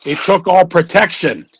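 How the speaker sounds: lightly put-on comic broken English; broken-English character voice. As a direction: play the pedalling rickshaw man.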